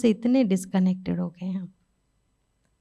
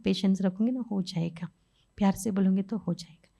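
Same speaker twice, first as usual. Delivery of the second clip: soft, patient coaxing of her own mind, ending almost in a whisper; gentle self-talk; 4 dB quieter than usual. Retold or imitated. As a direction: talk yourself down kindly, like comforting a friend. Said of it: "हम अपने आप से बात करते हैं". (नरमी से खुद को समझाना)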